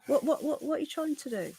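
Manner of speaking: half-whispered interruption to her partner; hushed aside. Real, not acted. Aside to partner who walked in.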